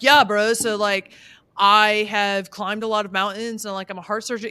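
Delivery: lightly voiced surfer dude; a hint of laid-back surfer bro; older surfer dude. Host mimicking how a contestant sounds, light surfer-dude voice. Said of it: "He sounds like an older surfer dude".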